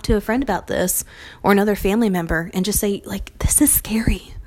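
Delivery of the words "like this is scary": hushed, admitting fear; whispered. Retold or imitated. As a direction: breathe it out as a scared confession.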